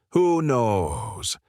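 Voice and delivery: teasing, lightly coy; playful pout. Acted. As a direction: toss it off like a tease. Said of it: "gives him this playful little pout and goes".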